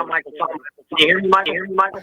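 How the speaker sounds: faint, cutting-out phone call; fading phone line. Real, not acted. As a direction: caller drifting away from the mic. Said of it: "you're fading in and out".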